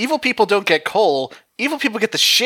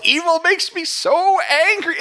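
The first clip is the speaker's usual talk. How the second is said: Ninjor voice; 8 semitones higher than usual. Retold or imitated. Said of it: "He just says".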